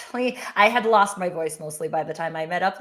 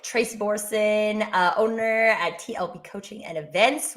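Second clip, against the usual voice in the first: husky voice. Real, not acted. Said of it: "You sound, you sound a little husky".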